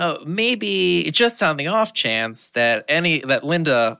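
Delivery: grudgingly hedge, drawing out the words; tentative mock admission that sinks in pitch; hedging. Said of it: "start hedging his bets".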